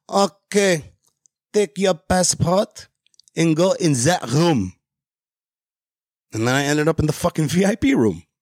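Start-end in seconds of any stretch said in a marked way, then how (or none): 0.1-4.7 put-on Israeli-accented speech. Retelling what a lady told him on arrival, in a thick Israeli accent. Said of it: "in her thick Israeli accent".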